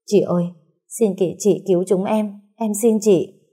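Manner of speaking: a light tearful plea, rising a little; pleading. Acted. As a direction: beg the sister for help, mildly teary. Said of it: "quay lại van xin". (cô gái van xin chị cứu chồng, giọng hơi nghẹn)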